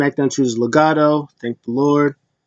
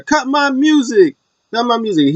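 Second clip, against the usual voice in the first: imitated showman's order, pitched up; acted-out demand; 9 semitones higher than usual. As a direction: call it out like a wrestler interrupting the show. Acting out wrestler cutting the music.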